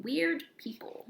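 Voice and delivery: soft spooky whisper; whispered title. Shown as a demonstration. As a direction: hush it out mysteriously. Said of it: "whispered chapter title".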